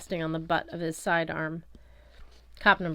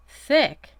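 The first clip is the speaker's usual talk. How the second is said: sharply higher, louder baffled question; puzzled; 8 semitones higher, 11 dB louder than usual. A narrator's reading. Boy echoes the insult, high and baffled. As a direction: throw the strange word back at him. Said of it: "I asked".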